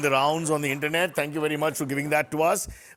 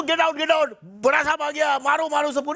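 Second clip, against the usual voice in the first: imitating bodyguards; 8 semitones higher, 3 dB louder than usual. Imitating VIP convoy guards yelling.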